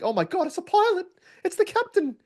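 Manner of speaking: high-pitched gushing fangirl impression; mock swooning women. Host mimicking women throwing themselves at a pilot, mock swooning. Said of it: "women who are throwing themselves at you like".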